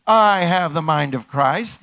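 firm, slow affirmation; slow, emphatic congregational proclamation; convinced declaration. Shown as a demonstration. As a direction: say it like you believe it. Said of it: "say it like you believe it".

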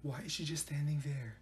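very soft, voiceless aside; secretive undertone; hushed whisper. Acted. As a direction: whisper about someone within earshot. Whispering about someone nearby.

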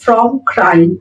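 very slow, word by word dictation; slow model sentence. Shown as a demonstration. Teacher reading the example sentence aloud to students, very slow and clear. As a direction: spell it out slowly for learners. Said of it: "কাঁদতে কাঁদতে আমি ক্লান্ত হয়ে গেছি".

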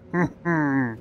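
soft, short closed-mouth chuckle. Pretend. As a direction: chuckle softly to yourself. Amused hum as Mister Bean.

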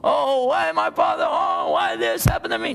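high wailing cry of why me; mock wailing grief. Son acting out wailing grief over father's death. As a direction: wail it like a grieving son. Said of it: "It was crying like this".

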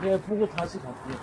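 slow tipsy drawl; pretend drunk. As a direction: drag it out like a drunk. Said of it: "술 취한 척하고".

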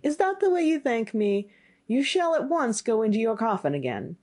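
high-pitched, affronted scolding; indignant youth. Acted.

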